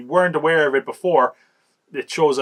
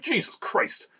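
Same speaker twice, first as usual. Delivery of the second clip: breathless, high, unvoiced gasp of shock; horrified whispered exclamation; 11 semitones higher, 4 dB quieter, much slower than usual. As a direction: gasp it out as if seeing something gruesome. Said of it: "And you're like".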